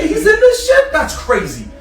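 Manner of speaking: high, loud mock disbelief; feigned amazement. Friends distracting angry car fans, feigned amazement. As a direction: play up the shock as a cover. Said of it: "we trying to play it off like".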